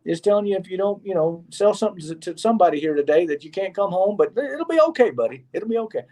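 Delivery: high, patronising voice calming a struggling newcomer; condescending pity. Retold or imitated. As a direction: pat him on the head with pity. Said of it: "People won't".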